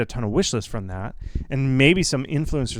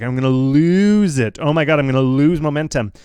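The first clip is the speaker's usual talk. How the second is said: louder, slowed mock panic over losing momentum; mock freak-out; 5 dB louder than usual. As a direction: ham up a panicky indie dev. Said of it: "That's where people start freaking out".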